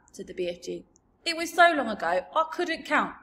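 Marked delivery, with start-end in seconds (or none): 1.2-3.2 rumbling kindly giant; BFG voice. A narrator's reading. BFG character voice.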